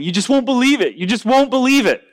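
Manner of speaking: high-pitched mock distress, no real sobs; imitated sobbing. Girl tells her friend about her boyfriend, mock-distraught. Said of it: "and she's sobbing".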